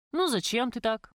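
укоризненно. Acted. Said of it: "укоризненно сказал я".

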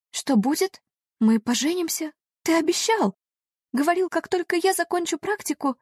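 high, pleading heroine voice; voiced high and pleading. A narrator's reading.

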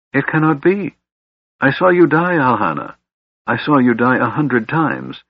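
put-on high, anguished old father; stunned disbelief rising into anguish; tormented elf king.

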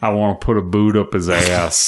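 put-on Southern accent; mock Southern tough talk. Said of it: "that was my southern accent".

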